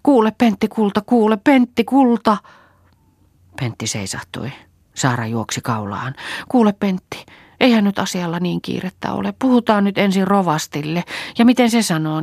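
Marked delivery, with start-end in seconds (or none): 0.0-2.4 high, loud sobbing call; crying out. A narrator's reading. Saara running after Pentti, loud tearful calling. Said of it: "itki parkuen juostessaan". 6.5-12.2 higher, louder breathless pleading. A narrator's reading. Saara catching Pentti, breathless pleading.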